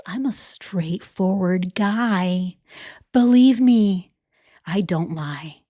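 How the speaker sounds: hushed, slow mock whisper of a smooth liar. Mocking the cheater whispering to his side piece, hushed. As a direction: breathe it like a sleazy secret promise.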